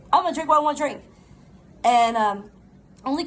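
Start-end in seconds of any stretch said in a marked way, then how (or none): 0.1-1.0 put-on defiant little boy. Voicing defiant young son.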